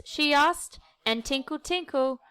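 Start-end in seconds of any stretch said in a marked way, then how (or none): 1.2-1.6 tinkle with a rising tune; tinkle, lifting up; tinkling sound. Acted. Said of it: "she made a little puddle". 1.6-2.2 tinkle with a falling tune; tinkle, dropping down; tinkling sound. Acted. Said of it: "she made a little puddle".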